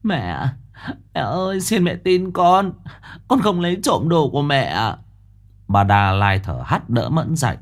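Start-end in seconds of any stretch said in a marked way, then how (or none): 0.0-5.0 high tearful begging, mildly acted; wailing plea. A narrator's reading. Mẫn kneeling before Bà Lai, tearful pleading. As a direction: cry out for mercy. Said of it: "nắm lấy vạt áo của bà mà kêu khóc".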